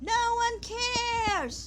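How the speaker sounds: very high, soft character voice, drawn-out "cares". Acting out YouTube answering a creator, in an Eric Cook voice. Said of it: "in the voice of Eric Cook".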